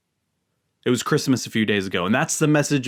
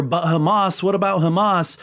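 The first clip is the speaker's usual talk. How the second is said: higher, pointed mock objection; mocking whataboutism; 8 semitones higher, 4 dB louder than usual. Mimicking people who deflect, mocking sarcastic tone. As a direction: parrot the deflection with a scoff. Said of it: "I don't wanna hear".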